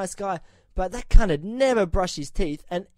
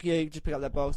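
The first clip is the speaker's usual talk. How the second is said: softer murmured aside to Kenji; quiet aside; 3 semitones lower, 6 dB quieter than usual. Retold or imitated. Telling Kenji what to say, softly under the breath. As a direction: drop your voice, telling a friend. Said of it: "I was saying it to Kenji".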